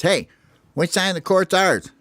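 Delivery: lightly voiced little bird asking; curious teammate. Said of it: "somebody on Hope's team says".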